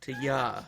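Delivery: "To ya" with a clear "yah", not "you"; "ya" said openly as "yah"; stressed YA. Shown as a demonstration. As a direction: correct it to "To ya", leaning on "ya". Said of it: "That's the important part".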